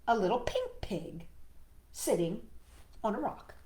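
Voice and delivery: put-on measured, animated read-aloud to a small child; story narration. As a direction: read it like a picture book, pausing between phrases. Reads picture book to child.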